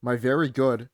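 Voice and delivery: Trump voice. Shown as a demonstration. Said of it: "Like when he says".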